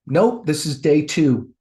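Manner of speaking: slow, deliberate, firm instruction; God. Retold or imitated. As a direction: stretch each command out steadily. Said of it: "I heard God go".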